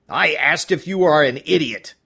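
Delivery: loud harsh bark; barked demand. Acted. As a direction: snap the question at her. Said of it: "he barked".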